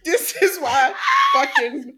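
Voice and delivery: mock spooky, laughing; laughing mockery. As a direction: crack up at the ridiculous line. Mocking the character's explanation.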